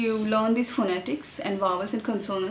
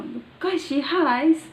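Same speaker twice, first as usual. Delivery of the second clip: slow, high Marathi village drawl; drawn-out village Marathi tune; Marathi village accent; 5 semitones higher, 4 dB louder, slower than usual. Shown as a demonstration. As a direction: stretch it into a rural Marathi lilt, rising at the end. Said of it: "like the village people say".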